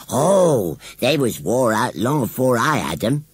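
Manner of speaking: high rustic scarecrow boast; proud. A narrator's reading. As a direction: explain it with country pride. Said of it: "explained Gummidge proudly".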